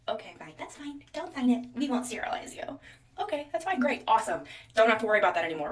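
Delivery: mock breezy nurse. Nurse voiced in retold story.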